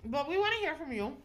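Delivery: talking while munching chips; crunching chips. Real, not acted. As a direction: speak around a mouthful of chips. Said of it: "I'm over here munching on chips".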